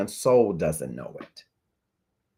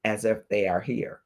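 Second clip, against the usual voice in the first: slow quoted advice. Retold or imitated. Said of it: "He says".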